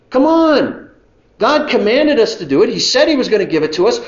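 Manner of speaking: high, eager urging; rally the doubters; Caleb rallying. Acted. Caleb pressing the people to trust God, high and eager. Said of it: "And so Caleb stands up".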